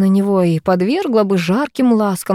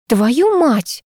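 growled; 6 semitones higher than usual. A narrator's reading. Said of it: "прорычала я".

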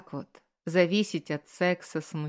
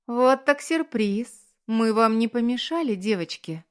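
put-on drunk slurring; 5 semitones higher, 6 dB louder than usual. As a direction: slur it like you're tipsy. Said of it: "заплетающимся языком".

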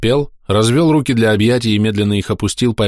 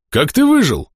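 exclaiming; 13 semitones higher than usual. Acted. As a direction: blurt it out in astonishment. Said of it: "воскликнул Дембель".

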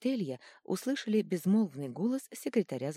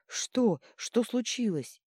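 panting, breathless questions; out of breath; 7 semitones higher, 5 dB louder, much slower than usual. A narrator's reading. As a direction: gasp it out after hurrying. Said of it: "Пытаясь отдышаться от быстрой ходьбы".

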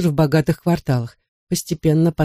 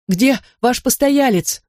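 breathless, high and slow; urgent panting report; 8 semitones higher, slower than usual. A narrator's reading. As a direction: gasp it out, out of breath. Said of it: "задыхаясь, выпалил Таспер".

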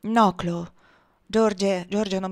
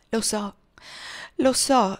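sorrowful; 2 semitones higher, slower than usual. A narrator's reading. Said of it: "rispose dolorosamente".

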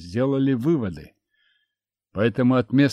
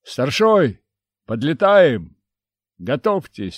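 over a pilot headset; 3 semitones higher, 6 dB louder than usual. Acted. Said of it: "В наушниках раздался голос пилота".

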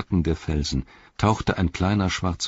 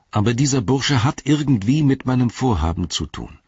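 Frodo's voice; 3 semitones higher than usual. Acted.

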